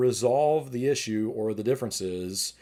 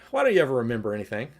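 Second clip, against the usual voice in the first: mild mock scolding, a little louder and quicker; criticism; 3 semitones higher, 4 dB louder than usual. Shown as a demonstration. Demo of criticizing a partner, mildly scolding. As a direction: nag your partner with a touch of blame. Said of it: "The criticism would be".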